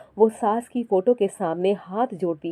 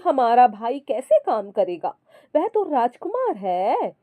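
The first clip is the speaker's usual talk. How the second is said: sister-in-law voice; 4 semitones higher than usual. Acted. Sister-in-law on the phone brushing off her brother's wife, sugary. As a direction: coax her brother's wife while dodging help.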